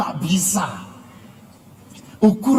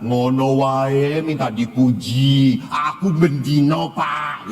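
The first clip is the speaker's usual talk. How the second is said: grumbling complaint; 5 semitones lower, slower than usual. Retold or imitated. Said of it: "Tapi jangan berkata".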